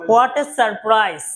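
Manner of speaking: very slow, drawn-out "What a surprise!"; surprised. Acted. Student thanking the teacher for surprise flowers, drawn out. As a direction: stretch it out like an unexpected gift. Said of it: "তখন তোমরা বললা যে".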